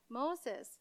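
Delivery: soft, slow, solemn pronouncement; lightly voiced God, hushed and measured. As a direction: quietly intone a divine calling. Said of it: "This voice telling him".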